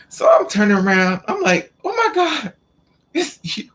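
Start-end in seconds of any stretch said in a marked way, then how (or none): 1.8-3.7 very high-pitched mock astonishment; retold shock. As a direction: act out stunned recognition, voice shooting way up. Retold shock on turning around.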